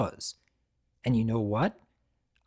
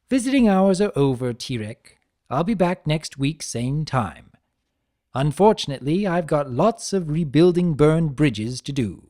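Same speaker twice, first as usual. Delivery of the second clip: lightly raised, lively trickster lecturing a prisoner; Discord voice; 2 semitones higher, 4 dB louder than usual. Acted. Discord chiding Tirek for abandoning his brother, lightly voiced trickster.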